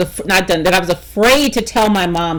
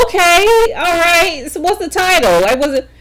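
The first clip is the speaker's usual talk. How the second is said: mom's voice; 8 semitones higher than usual. Retold or imitated. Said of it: "She said".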